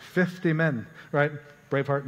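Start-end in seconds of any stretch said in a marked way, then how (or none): 0.0-0.9 lightly attempted Scottish accent; joking, half-hearted Scottish accent. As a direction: try a hint of a Scottish brogue. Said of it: "I'm sure in a Scottish accent".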